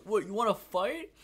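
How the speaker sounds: retold drunk yelling at a teen usher; mock angry drunk. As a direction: act out a drunk guy itching for a fight, loud and high. Drunk snorer picks a fight.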